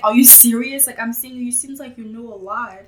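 sharp "Are you serious?", then eases off; recalling her shock at a classmate who seemed to know it all; disbelieving retort. Retold or imitated. Retelling a library chat, incredulous. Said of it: "I looked at him like".

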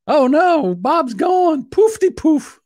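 high-pitched mock alarm; mock dismay. Host mourning his dropped co-host, in high-pitched mock dismay.

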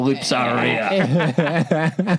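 put-on slow, leering Australian accent; an Aussie bloke luring someone over, Australian accent; hammed-up slow Australian come-on. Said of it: "surely it should be an Australian".

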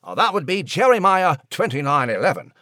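a tiny chatty creature musing; Nigel the mouse. A narrator's reading.

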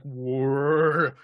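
mechanical whirr sound; whirring robot servos. Retold or imitated. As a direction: make a whirring servo noise. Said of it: "He's like".

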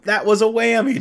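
loud, high-pitched host outcry; mock yell. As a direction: yell it like a desperate game show host. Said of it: "he just start yelling".

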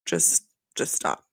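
low, slow, hushed and voiceless; soft exasperated imitation; weary mock plea. Acted weary plea to stop.

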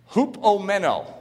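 Hupomeno with stress on men; Greek word hupomeno. Shown as a demonstration. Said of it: "the emphasis is on the men".

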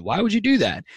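sharp, high swooping accusatory question; accusing why. Shown as a demonstration. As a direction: ask it as an incredulous challenge. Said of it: "it's not why as in".

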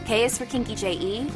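ordinary talk, nothing marked

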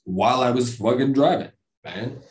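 put-on Stallone-ish accent, leaning on the words. Podcaster insisting he was driving during the UFO sighting, in a Stallone-ish accent. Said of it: "it's almost Stallone-ish".

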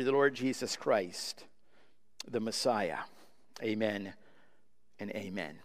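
soft, low pastoral prayer. Acted. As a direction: pray quietly and humbly to the Father. Opening prayer before the sermon.

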